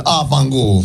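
mock Italian-American accent on Ah, fangool; Italian-American curse. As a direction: toss off Ah, fangool like a street Italian. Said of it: "to Italy and said".

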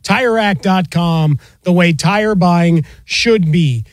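polished announcer-style ad copy; sponsor read. Acted. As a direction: sell it like a radio sponsor spot. Reads a sponsor message.

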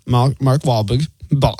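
halting, drawn-out stab at a Boston accent; attempted Boston accent. Shown as a demonstration. Radio host giving a hint to his co-host, attempted Boston accent. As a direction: fumble "Mark Wahlberg" in a bad Boston accent. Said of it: "can't even do that in the accent".

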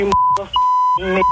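squeaky high voice. Retold or imitated. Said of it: "Read that back to me".

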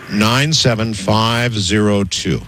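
digit by digit, slowly; slow dictation. Real, not acted. Host gives caller the zip code to write down, slowly. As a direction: space out the numbers for note-taking.

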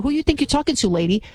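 imitating a social media girl getting in someone's face; mock sassy confrontation. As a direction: ham up a sassy girl ready to slap. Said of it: "What if I was like, you know, Shaniqua".

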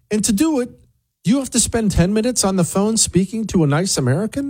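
high-pitched, upbeat sponsor pitch; ad read. Acted. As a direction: sell it with bright cheer. Host reads sponsor ad.

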